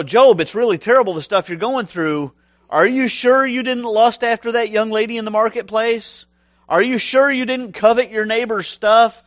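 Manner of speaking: Job's friends prying at his sins, nagging; berating friends. Retold or imitated. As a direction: badger him with sweet suspicion. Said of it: "berate him, really, with their comfort".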